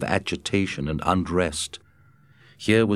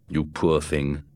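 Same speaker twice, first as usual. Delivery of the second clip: lower, gentle comfort; gently; 4 semitones lower than usual. A narrator's reading. Scott comforting White Fang, gentle and lower. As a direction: soften it for the dog. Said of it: "he said gently".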